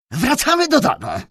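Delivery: loud, high barked order; commanding. A narrator's reading. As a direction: order the servant home. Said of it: "rozkazał".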